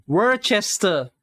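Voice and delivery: Worcester slowly as "wer-CHES-ter"; pronunciation attempt. Shown as a demonstration. Streamer testing the word, Worcester as slow "wer-chester". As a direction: stretch Worcester out, "wer" then full "chester". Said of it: "I don't know how to pronounce it".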